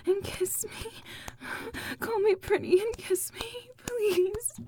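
breathy pleading whisper. Acted. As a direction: beg in a hushed whisper. Pleading softly.

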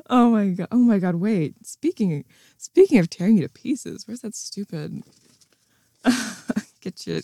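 ordinary talk

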